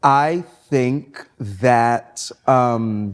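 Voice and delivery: very slow mock judge; suspenseful, slow verdict; drawn-out deliberation. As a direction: stretch each word out as if weighing a verdict.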